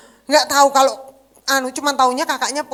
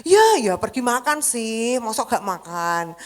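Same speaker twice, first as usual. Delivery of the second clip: calm slow mother; slower than usual. Retold or imitated. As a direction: hold back anger, ask gently. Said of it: "saya bilang gitu". (ibu bertanya pelan dan sabar)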